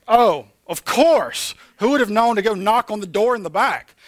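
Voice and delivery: sarcastic. Retold or imitated. Preacher recounting his post office runaround, sarcastic. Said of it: "I was like".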